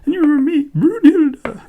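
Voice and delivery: loud, high question; loud high call. Acted. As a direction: call out to her. Hero calls to Brunhilde.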